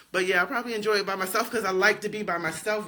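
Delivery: light laughter running through the words; brushing off the sadness with a chuckle; laughing it off. Real, not acted. Telling viewers she likes being alone, laughing it off.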